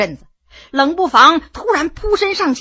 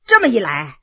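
usual speaking voice

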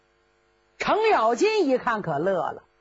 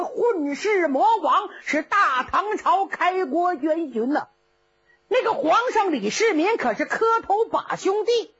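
put-on braggart old general, higher and bluffing; boastful Cheng Yaojin; 3 semitones higher than usual. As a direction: puff up and brag to scare the captor. (程咬金吹牛，嗓门高)

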